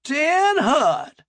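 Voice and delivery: high, loud barked command; drill sergeant voice. Acted. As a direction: bark it like a drill sergeant on parade. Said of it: "Dee could do a drill sergeant voice".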